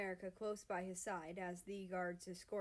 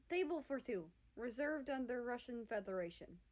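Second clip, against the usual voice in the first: smooth; 4 semitones higher than usual. Acted. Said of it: "Russia says smoothly".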